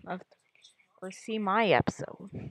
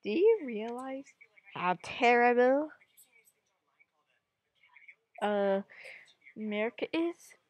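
mock non-native English accent, a touch higher, slowing on "how terrible"; playful broken-English accent in a dictator impression; 3 semitones higher than usual. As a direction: imitate a heavy foreign accent speaking imperfect English. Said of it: "in an unperfect English accent".

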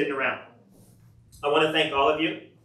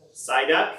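lightly voiced creature call, rising at the end; Psyduck. Performing a round of creature calls, lightly voiced with a rising end. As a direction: call out the name with an upward lilt. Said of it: "this is Psyduck".

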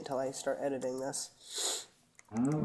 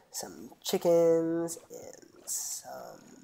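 whisper; much slower than usual. Real, not acted. Whispered aside while playing.

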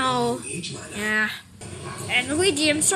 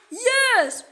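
high, drawn-out battle shout; villainous threat; 6 semitones higher, much slower than usual. Acted. Revealed dragon attacks the hero, villainous shout. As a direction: stretch out the final word as a threat.

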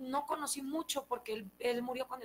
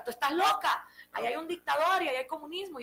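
a louder, lightly voiced grandma scolding; 4 semitones higher, 4 dB louder than usual. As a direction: tell the child off, half-amused. Grandma scolding child in story.

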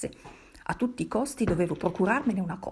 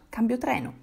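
raised, higher-pitched retort; shouting back; 4 semitones higher, 4 dB louder than usual. A narrator's reading. Passenger telling a bystander he is changing trains, calling out. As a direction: call it back as a firm announcement. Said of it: "gli gridai io a mia volta".

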